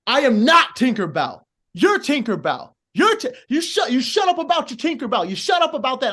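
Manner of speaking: hammed-up heel jawing back at the crowd; heel yelling at crowd. Heel shouting back at a heckling crowd, mock outrage. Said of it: "it's like".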